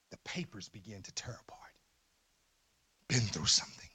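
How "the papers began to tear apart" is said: hushed, breathless whisper. Real, not acted. Pastor recalling crying over his cousin's death, whispered. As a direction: drop to a whisper for the memory.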